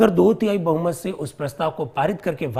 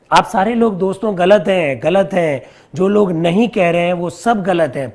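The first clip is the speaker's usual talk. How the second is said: louder, insisting "गलत हैं"; emphatic loud correction; 2 semitones higher, 6 dB louder than usual. Real, not acted. Teacher correcting wrong answers from online students, loud and insistent. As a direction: firmly tell the class they are all wrong.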